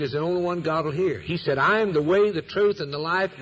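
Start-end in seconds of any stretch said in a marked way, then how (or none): 1.6-3.4 proclaiming. Retold or imitated. Preacher proclaims Christ's words.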